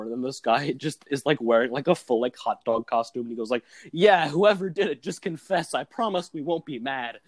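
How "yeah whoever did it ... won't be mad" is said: slowed, higher opening, easing down; lightly put-on plea to confess; lightly acted sketch character. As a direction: play the earnest culprit, lightly. Acting hot-dog-suit man in sketch.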